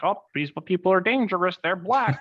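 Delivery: lightly voiced old-timer warning about danger; mocking racist elders; mock bigot voice.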